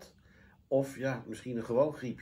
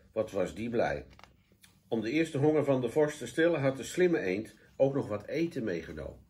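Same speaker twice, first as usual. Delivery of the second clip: lively, deliberate storybook telling; children's story narration. A narrator's reading. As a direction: read expressively to children. (voorleestoon voor kinderen)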